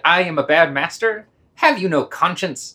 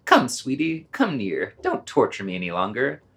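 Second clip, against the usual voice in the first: falsely sweet. Acted. Master coaxes the dog.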